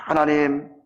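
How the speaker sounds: lightly acted prayer of thanks, starting low; a hint of humble, measured praying. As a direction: pause between phrases as if praying. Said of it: "다음과 같이 기도를 드렸습니다".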